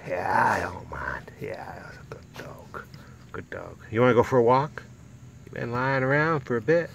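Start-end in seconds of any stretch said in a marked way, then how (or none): 0.1-1.3 whispered dog reply. Pretend. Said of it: "You don't mind that, do you?". 1.4-3.8 slow hushed whisper of praise; soft praise. Real, not acted. Praising dog tenderly.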